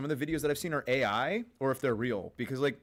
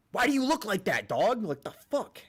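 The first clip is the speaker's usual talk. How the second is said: loud, high-pitched baffled outburst; mock incredulous; 10 semitones higher, 5 dB louder than usual. Streamer demanding answers from a rabbi, mock incredulous. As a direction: burst out in exaggerated disbelief.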